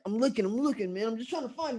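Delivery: high-pitched mock protest; defensive excuse. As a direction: insist unconvincingly that you are trying. Excuses to impatient friend.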